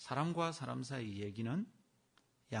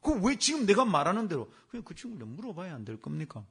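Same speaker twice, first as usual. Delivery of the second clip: louder indignant insistence; retold angry demand; 6 semitones higher, 9 dB louder than usual. Deacon insisting the pastor summon the young man, louder and indignant. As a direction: push him to do as told. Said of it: "화를 내는 거예요".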